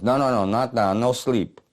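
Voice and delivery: insistent French pal. Acted. French pal stopping the dazed narrator from sleeping, insistent French voice. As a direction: firmly keep him awake, lightly French-voiced. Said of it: "this French voice says".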